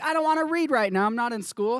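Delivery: put-on bored kid. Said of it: "maybe you're like".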